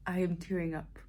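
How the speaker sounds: hushed whisper, choked up. Real, not acted. Vlogger whispering to viewers late at night, moved. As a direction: whisper so as not to wake anyone.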